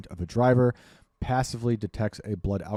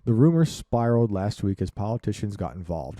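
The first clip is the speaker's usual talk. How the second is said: ordinary talk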